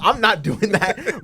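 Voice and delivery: high, drawn-out mock refusal. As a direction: imitate a refusal, slow and high. Acts out game character's refusal.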